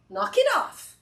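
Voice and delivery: sharp, high, loud telling-off; stern retort. Acted. Answering her own doubts with a sharp reproach. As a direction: cut the whining short. Snapping back at the doubting self.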